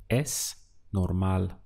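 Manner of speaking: Es normal said slowly and clearly for learners; slow careful Spanish, Es normal; model answer. Shown as a demonstration. Teacher modelling the answer for the student, slow and clear. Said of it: "How would you say "it's normal"?".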